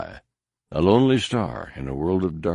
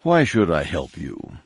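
calm; 2 semitones lower than usual. Acted. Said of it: "Nom Anor repeated calmly".

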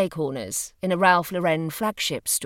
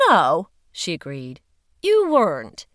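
louder, brisk official woman; firm woman's voice; 5 dB louder than usual. Acted. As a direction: speak up like a firm investigator. Female agent agreeing.

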